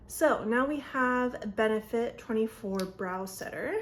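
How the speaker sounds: slightly winded talking; breathless from rushing; out of breath. Real, not acted. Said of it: "I'm, like, out of breath".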